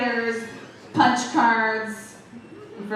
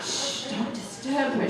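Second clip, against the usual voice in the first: mock hush; 3 semitones higher, 5 dB quieter, slower than usual.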